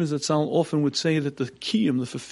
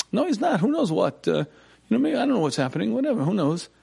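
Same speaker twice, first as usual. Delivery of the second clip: pleading; 6 semitones higher, faster than usual. Retold or imitated. Arguing with own mind.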